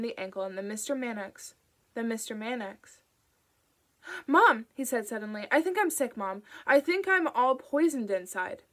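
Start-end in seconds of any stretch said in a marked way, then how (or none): 4.3-4.7 sudden loud high call for Mom. A narrator's reading. Boy calling out to mother. 5.5-8.6 put-on higher, louder plaintive child; a scared boy telling mom he's sick; frightened sick boy. A narrator's reading. Sick boy pleading to mother.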